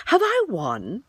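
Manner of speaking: lightly cheerful high voice; a hint of bouncy Tigger. A narrator's reading. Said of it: "said cheerfully".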